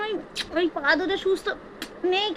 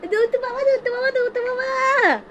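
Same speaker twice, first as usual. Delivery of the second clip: high sing-song coo; 7 semitones higher than usual. Real, not acted.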